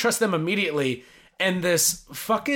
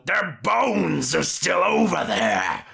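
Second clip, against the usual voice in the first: dopey dad voice; slower than usual. Retold or imitated. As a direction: blurt it like a clueless father. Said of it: "dipshit dad who's just like".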